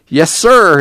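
meek and deferential; servile whine. Acted. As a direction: give in with a cowed whine. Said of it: "Tom whined".

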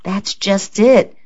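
slow, soothing tone to calm her; placating. A narrator's reading. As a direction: ease her temper gently. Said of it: "Gerald said placatingly".

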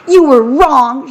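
high, drawn-out mock sob; tearful sob. A narrator's reading. Kathy to Damien after the ball hit her, sobbing. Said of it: "she sobbed".

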